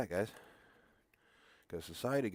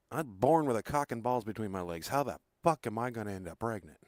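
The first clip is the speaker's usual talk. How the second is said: indignant retort; 6 dB louder than usual. Retold or imitated. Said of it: "that's how I said it to her".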